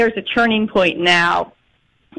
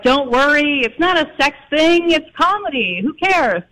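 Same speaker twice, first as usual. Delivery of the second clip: higher-pitched retold brush-off; breezy reassurance; 6 semitones higher than usual. Director soothing nerves about the scene, breezily dismissive. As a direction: lightly imitate someone waving worries away.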